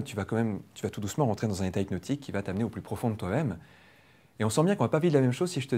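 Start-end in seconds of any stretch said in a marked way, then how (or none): 0.0-3.6 calm, even hypnotic suggestion in a plain French voice; normal hypnotic voice. Shown as a demonstration. Trainer demonstrates an induction to a volunteer, plain hypnotic voice. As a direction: guide them down gently in your own voice. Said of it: "avec une voix normale".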